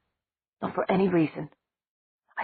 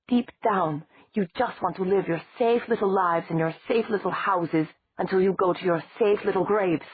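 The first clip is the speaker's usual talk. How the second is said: furious tirade; 3 semitones higher than usual. Acted.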